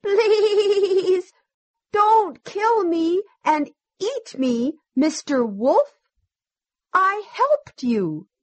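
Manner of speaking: high, quavering bleat on the long vowels; pleading sheep. A narrator's reading. Sheep begs the wolf for its life, high bleating plea. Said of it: "The sheep said".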